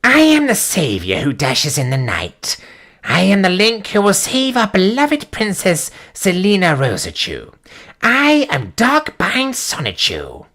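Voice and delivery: a hint of a proud anime hero; Zenshiki voice. Streamer reading the hero's boast as Zenshiki.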